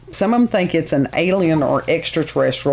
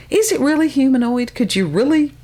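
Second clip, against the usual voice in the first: incredulous question; 9 semitones higher, faster than usual. Real, not acted. Doubting the description.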